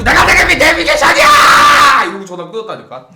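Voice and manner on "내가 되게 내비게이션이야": high, furious full-out scream; exploding into a long, high-pitched yell; blowing her top. Retold or imitated. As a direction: scream it drawn out, lid blown off. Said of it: "뚜껑이 확 열리는 거야".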